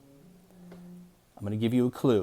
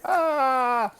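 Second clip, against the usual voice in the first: mock yelp; 3 dB louder than usual. Teacher clowning for the kids.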